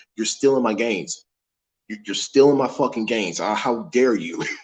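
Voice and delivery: normal talking voice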